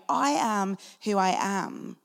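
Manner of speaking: slow, weighty voice of God; solemn divine declaration. Retold or imitated. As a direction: declare it slowly like God from the bush. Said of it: "the voice of Yahweh speaking through a burning bush to Moses, declaring".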